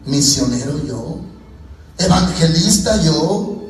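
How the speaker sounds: mock-incredulous, drawing out each "yo"; amused disbelief. Believer laughing off God's call to be pastor, in amused disbelief. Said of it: "y le causa gracia".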